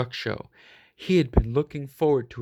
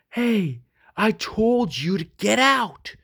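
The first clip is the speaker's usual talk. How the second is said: higher, louder gruff bark; barked order; 9 semitones higher, 4 dB louder than usual. Acted. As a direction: bark it at the bunny like a tough dog. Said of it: "Mike barked".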